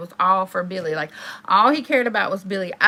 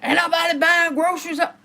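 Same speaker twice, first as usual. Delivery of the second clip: retold snap; 6 semitones higher than usual. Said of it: "Oh, he snaps".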